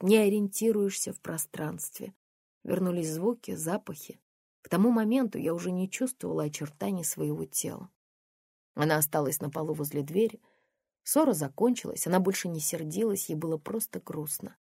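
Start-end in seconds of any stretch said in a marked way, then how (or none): none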